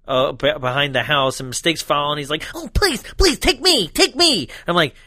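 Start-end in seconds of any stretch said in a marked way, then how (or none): 2.5-4.5 high, begging whine; hammed-up begging; high mock pleading. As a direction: beg it in a squeaky voice. Acted pleading.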